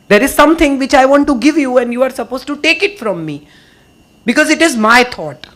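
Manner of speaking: every word spelled out slowly; slow and deliberate. Real, not acted. Speaker to audience, slowly stressing her own thought. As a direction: lay each word down so it sinks in.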